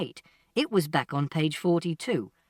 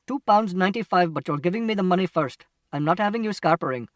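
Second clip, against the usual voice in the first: gruffly insistent demand for payment; wary shopkeeper; 3 dB louder than usual. Acted. Shopkeeper demanding money from customer first, distrustful. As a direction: lay down terms firmly, speeding up.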